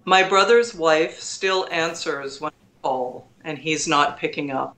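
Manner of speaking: calm, measured recital of a sonnet; poem reading. Acted. Reads her title poem.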